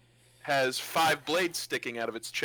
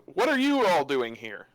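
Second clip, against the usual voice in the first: louder, with a swoop on the question; challenging call; 5 dB louder than usual. Acted. Chris notices the party and confronts them, challenging call. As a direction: confront them in character, raising the voice.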